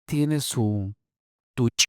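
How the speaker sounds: "Tiene su tuch" with glottal breaks; fully glottalized. Shown as a demonstration. Lecturer showing glottalized Yucatecan forms, glottalized. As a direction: cut "tuch" off hard. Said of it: "glotalizadas completamente".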